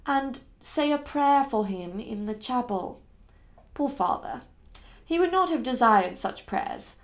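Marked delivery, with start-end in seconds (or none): 0.0-3.0 measured, simple explanation; patient, word by word. Acted. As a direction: set each phrase down patiently. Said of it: "one patient word at a time".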